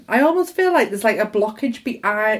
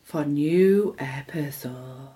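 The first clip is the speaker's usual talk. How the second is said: serious; 4 semitones lower, slower than usual. Shown as a demonstration. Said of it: "I sound real serious there".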